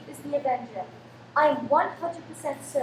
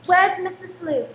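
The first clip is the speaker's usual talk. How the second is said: urgent raised voice, higher; alarmed; 3 semitones higher, 7 dB louder than usual. Acted. Mother demanding where the killer went, alarmed urgency. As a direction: demand an answer fast.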